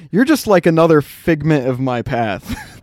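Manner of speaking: loud, slow mock pronouncement; mock dramatic. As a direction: ham up a cold proclamation. Quoting friend's callous line.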